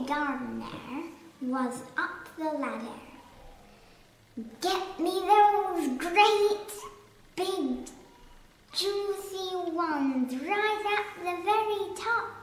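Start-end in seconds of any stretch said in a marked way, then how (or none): 4.6-12.3 put-on old man shouting. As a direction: bellow at the gardener for the cherries. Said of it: "the old man was shouting".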